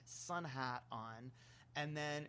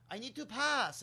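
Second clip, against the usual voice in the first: higher, louder retold plea; calling to pass; 7 semitones higher, 8 dB louder than usual. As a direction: call out to get past, pitched up. People stuck in narrow aisles.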